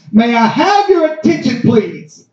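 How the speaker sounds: a hint of a public announcement; airport announcer. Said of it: "she broadcasted throughout the terminal".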